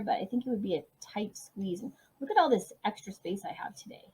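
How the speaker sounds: soft unvoiced whisper to herself; whispered aside. Real, not acted. Teacher whispering to herself as she writes. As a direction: murmur it under her breath while writing.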